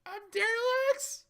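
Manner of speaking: big, slow, booming hero voice. Acted. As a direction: boom out the name proudly. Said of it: "In a booming voice".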